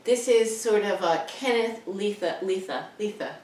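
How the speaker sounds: lisping s, th for s. Real, not acted. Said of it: "because I lisp now".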